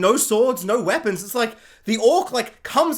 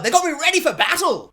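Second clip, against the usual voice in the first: sarcastic rallying; 7 semitones higher than usual. Real, not acted. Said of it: "sarcastic praise".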